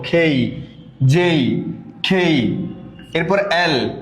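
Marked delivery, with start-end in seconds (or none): 0.0-2.7 "খেই" with a sound midway between ক and খ; neither hard ক nor full খ, the middle of the two; letter K between ka and kha. Shown as a demonstration. Teacher showing "খেই" between ক and খ. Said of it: "দুইটার মিডলে যে সাউন্ডটা হয়".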